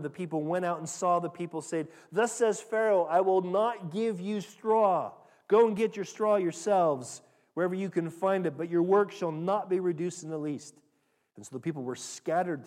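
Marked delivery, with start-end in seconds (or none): 2.1-10.7 loud, slowed-down royal command; commanding decree. Acted. Taskmasters announcing Pharaoh's order to the slaves, loud and commanding. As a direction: proclaim Pharaoh's order like a herald.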